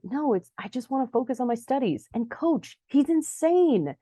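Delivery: high retold protest, building on the last word; pleading explanation. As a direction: imitate someone pleading his case. Adam defends quitting to Harvey.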